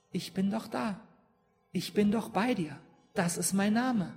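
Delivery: gentle God. Retold or imitated. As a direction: speak as God comforting Moses. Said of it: "Und da sagt Gott". (sanft beruhigende Stimme Gottes, leiser)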